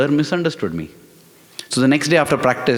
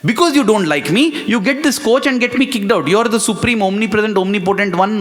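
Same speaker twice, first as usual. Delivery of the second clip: angry rant; 4 semitones higher than usual. Retold or imitated. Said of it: "I grew even more angry on Swami".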